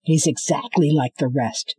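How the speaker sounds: dry, dismissive; man dismissing her plea; flat man's retort. Acted. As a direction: shut her down coldly. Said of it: "said the man".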